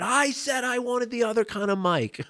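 imitating Ram Dass losing it; mock temper flare. Ram Dass snapping at the student guide, mildly mock angry. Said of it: "he lost his temper".

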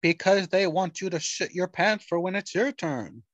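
sneering panto villain. Pretend. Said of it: "Why are you still talking like this".

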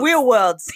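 "Wheel worlds" with W in place of R; says w for r. Retold or imitated. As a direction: own speech slip, said W for R. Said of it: "I get a lot of wheel worlds".

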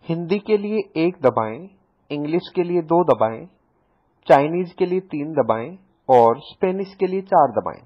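caller imitating the phone menu; mock IVR menu.

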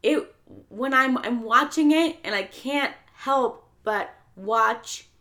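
holding back tears, laughing at herself; fighting tears. Real, not acted. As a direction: voice catching with emotion, half laughing. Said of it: "I'm so emotional talking about this film".

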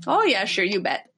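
mock Minnesota lilt, dropping at the end; Minnesota accent. Co-host answering "Oh, Minnesota", mock Minnesota accent. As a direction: put on a folksy Minnesota accent. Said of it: "Oh, Minnesota".

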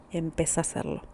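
hushed, intimate whisper to the listener; whispered nudge. Real, not acted. Therapist whispering encouragement to the listener to begin. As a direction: lean in and whisper the push to start.

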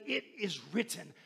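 soft, teeth-gritted "It is written"; hushed defiance facing death; through gritted teeth. Shown as a demonstration. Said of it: "and say".

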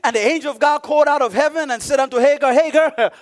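animated pulpit delivery; preaching. Real, not acted. Preacher recounts the angel calling to Hagar, preaching. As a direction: read and explain scripture with preacher's emphasis.

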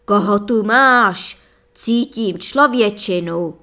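loud booming sorcerer shout. A narrator's reading. Sorcerer bursts in, shouting at the princess. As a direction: bellow it out like an angry sorcerer. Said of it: "vykřikl".

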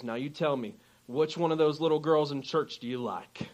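low, soft West Virginia mountain-man imitation; intimidating mountain man questioning in West Virginia tones; West Virginia accent. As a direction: lightly put on a quiet West Virginia accent. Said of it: "a little bit of the accent".

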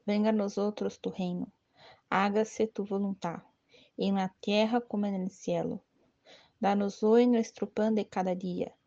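steady, measured devotional recitation; prayer recitation. Acted. Leading the novena's Our Father aloud, reverent prayer recitation.

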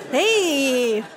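usual speaking voice

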